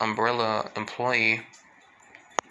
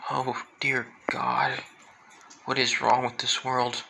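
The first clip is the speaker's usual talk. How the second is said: slow, breathy whispered dismay. Retold or imitated. Toga hearing about the lab experiments, slow whispered dismay. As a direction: let the horror sink in, whispering.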